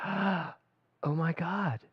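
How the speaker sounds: very slow, softened amazement; hushed awe. Acted. Speaker acting out a heart fluttering open, hushed awe. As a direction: breathe it out slowly in wonder.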